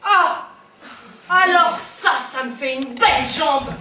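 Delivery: loud, scornful retort; sarcastic outburst. Acted. Dumped partner answers empty consolation, loud and sarcastic. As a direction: hit back loudly with bitter sarcasm. Bitter retort to a breakup line.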